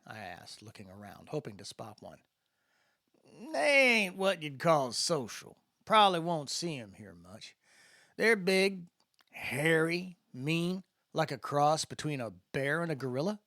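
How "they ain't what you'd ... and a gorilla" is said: a lightly voiced easygoing spacer; a hint of the drawling guide filling in the new kid; Landon's voice. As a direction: explain it in Landon's laid-back voice. Landon's voice in the story.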